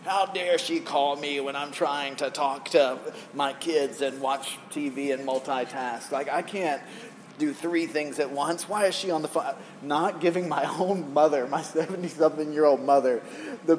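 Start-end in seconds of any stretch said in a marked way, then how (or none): 0.0-9.5 understated exasperation, drawing the words out; mildly indignant complaint to yourself; mock frustration. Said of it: "but I'm frustrated".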